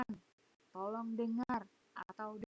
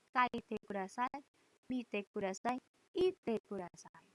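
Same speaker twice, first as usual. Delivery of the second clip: slow, emphatic classroom drill; drill recitation; 3 dB louder, slower than usual. Shown as a demonstration. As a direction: chant each phrase for students to repeat. Teacher drills command phrases.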